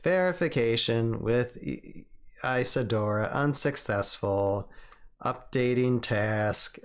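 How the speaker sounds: even machine readout; lazy robot reporting status. Pretend. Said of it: "It sounds like a little lazy robot".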